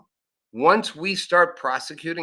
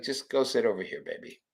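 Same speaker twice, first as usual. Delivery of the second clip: calm tough guy; 3 semitones lower, 7 dB quieter than usual. Retold or imitated. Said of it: "pushes you to the side and's like".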